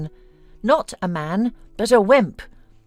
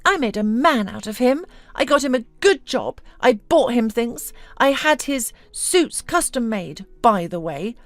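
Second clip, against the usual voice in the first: high-pitched, acted wail to friends; mildly hammed-up tearful self-pity; sobbing; 6 semitones higher than usual. A narrator's reading. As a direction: lament with a touch of tearfulness, pitched up. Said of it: "openly sobbing".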